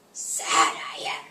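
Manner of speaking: breathy, slow, mock-solemn Yoda; half-whispered sad Yoda; understated Yoda farewell. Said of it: "he would not stop talking like Yoda".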